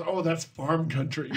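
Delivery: slow, offhand put-down; retold dismissive remark. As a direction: wave it away with mild scorn. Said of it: "Very dismissive".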